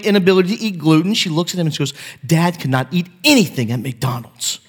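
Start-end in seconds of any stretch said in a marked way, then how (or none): 2.2-4.6 lightly voiced daughter, mock concerned with a laugh; sweetly manipulative, half laughing; fake concern. Daughter pleading to her brother with mock concern, light and laughing. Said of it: "a little manipulation".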